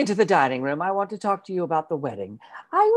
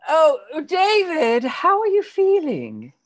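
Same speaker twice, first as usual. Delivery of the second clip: tearful; 7 semitones higher than usual. Acted. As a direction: voice cracking, tearful and high. Aunt fussing over nephew, crying.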